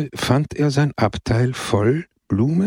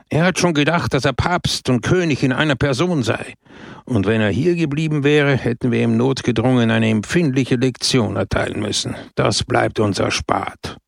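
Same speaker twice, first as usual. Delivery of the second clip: mayor ranting to his party; raised, indignant mock shout. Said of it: "schrie Pepone".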